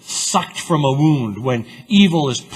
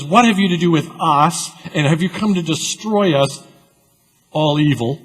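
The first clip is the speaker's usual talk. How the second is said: demon's cry; 4 semitones higher than usual. Acted. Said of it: "the demon is involved and says".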